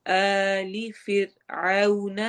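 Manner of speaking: slow tajweed chant, light r; slow Quran recitation. Shown as a demonstration. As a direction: chant فرعون with a thin light r. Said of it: "رو کو باریک پڑھنا ہے". (را کو باریک پڑھیں)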